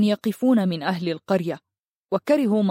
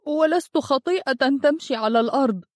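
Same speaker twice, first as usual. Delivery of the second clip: put-on ولست pushed high in a tearful boy's cry; denying through tears, high; 6 semitones higher than usual. A narrator's reading. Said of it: "صرخ هرهور وهو يبكي".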